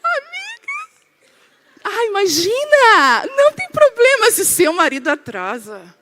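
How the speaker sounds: high, gushing friend voice; hammed-up sweetness, stretching the opening words; overly lovely. Woman reassuring friend about a late husband, gushing. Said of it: "você é um amor".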